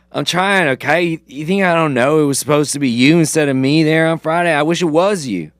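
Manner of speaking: loud, frustrated outburst in a put-on accent; badly faked accent, upset young quarterback; Saracen. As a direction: plead defensively, raising your voice. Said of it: "work on your Saracen impression".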